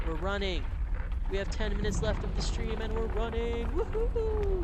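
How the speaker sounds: real excitement, ending in a high whoop; excited. Real, not acted. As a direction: cheer it out with real delight. Streamer thrilled by the chase.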